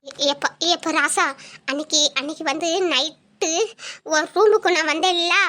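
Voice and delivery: nervous stammered admission; hesitant confession. Acted. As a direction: confess haltingly, afraid of his reaction. Mother hesitantly confesses to son.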